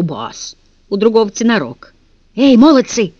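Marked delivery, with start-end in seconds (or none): 2.3-3.1 higher, louder call through the door; boy calls to the guards behind the door, shouting. Acted. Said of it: "крикнул Ластик".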